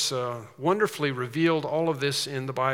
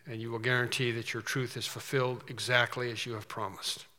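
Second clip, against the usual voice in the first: hushed, earnest prayer voice; quiet reverent congregational prayer; 2 semitones lower, 3 dB quieter than usual. Acted. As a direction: pray it softly to the Father. Pastor leads opening prayer.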